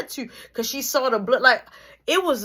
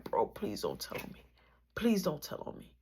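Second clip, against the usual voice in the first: crying plea; 5 semitones lower, 10 dB quieter than usual. Retold or imitated. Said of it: "Marky crying".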